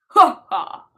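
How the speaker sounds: a put-on cackle of a line; hammed-up laugh. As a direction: ham up a cartoon laugh. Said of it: "doing different voices".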